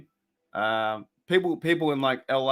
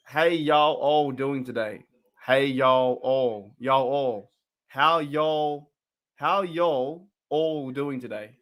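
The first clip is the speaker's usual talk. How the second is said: slow, drawn-out imitation of Southern American speech; American accent; much slower than usual. Imitating Americans he and his mate couldn't understand, slow Southern accent. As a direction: stretch out y'all in a puzzled American imitation. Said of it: "you guys said".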